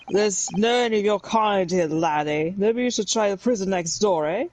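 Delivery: slow, lightly Scottish governor sneering; a hint of a Scottish jailer brushing him off; mock Scottish accent.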